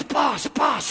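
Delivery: sneaky imp. Acted. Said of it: "this little imp goes".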